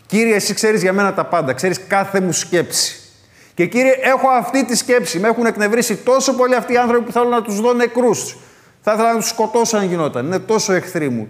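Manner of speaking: high, loud, heated cry to God; angry outburst. Retold or imitated. Voicing psalmist's angry outburst. (οργισμένο ξέσπασμα με υψωμένη, δυνατή φωνή)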